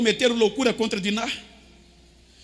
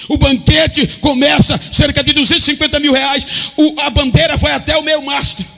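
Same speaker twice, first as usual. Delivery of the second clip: loud, raised, driving preacher delivery; full-force preaching; 3 semitones higher, 7 dB louder than usual. Real, not acted. Preacher to congregation on the wedding banquet, full-force preaching. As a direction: preach it out at full volume, building.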